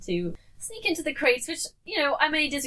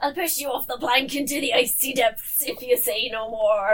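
lightly hammed pirate threat; a hint of a pirate. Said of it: "my pirate impression".

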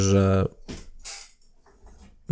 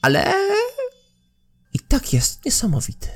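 much higher, excited innkeeper voice; high-pitched woman voice; 13 semitones higher than usual. Acted. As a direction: sing her praise of Ingo in a high voice.

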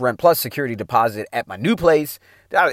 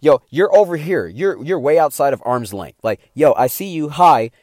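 louder, breezy "hey, yo" at arm's length; casual loud greeting; 3 semitones higher, 6 dB louder than usual. Retold or imitated. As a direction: call it out and keep walking. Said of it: "Acquaintance category means".

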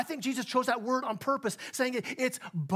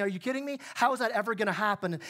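sarcastic; faster than usual. Retold or imitated. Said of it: "I think he's being sarcastic".

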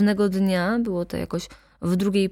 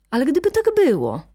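higher and louder, fast and pressing; defiant repeat; 6 semitones higher, 4 dB louder, faster than usual. A narrator's reading. Daughter repeats her challenge to her mother, defiant and louder. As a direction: throw it back at her, daring. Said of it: "powtórzyła pani Stawska".

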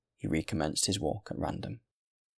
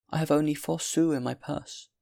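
put-on high-pitched, regretful old woman; apologetic old woman; 8 semitones higher, 4 dB louder than usual. A narrator's reading. Good woman offering her last coins, high and apologetic. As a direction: keep it high and earnest.

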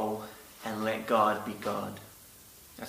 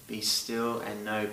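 peaceful. Shown as a demonstration. Preacher contrasting God's calm voice, peaceful. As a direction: say it gently, like a calm blessing. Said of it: "kind of peaceful".

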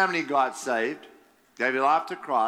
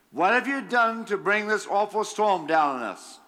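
raised, urgent demand; 5 semitones higher than usual. Acted. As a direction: demand it of him, voice up. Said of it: "they demanded".

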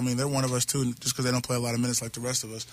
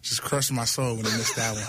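laughing. Real, not acted. Joking about teammate's missed lay-in.

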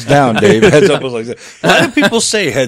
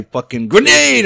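higher-pitched mock grenade warning; mock warning shout; 10 semitones higher, slower than usual. Soldier warning everybody to run, mock warning shout. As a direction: call it out like a warning. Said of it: "They just say".

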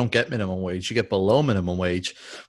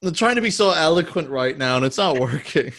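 sheepish laughing; laughing at herself; 4 semitones higher, 4 dB louder than usual. Real, not acted. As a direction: laugh through the words. Laughs at own rambling.

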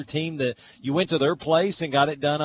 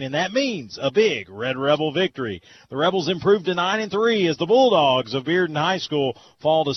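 radio announcer; 2 semitones higher than usual. Acted. Play-by-play sign-off.

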